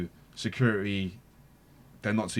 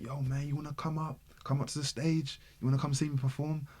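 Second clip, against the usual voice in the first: a singer's voice; 7 semitones higher than usual. Retold or imitated. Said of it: "He's just like".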